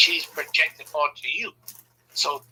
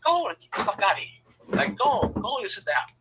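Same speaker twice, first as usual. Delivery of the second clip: mock mom dismissal; 6 semitones higher than usual. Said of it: "she's like".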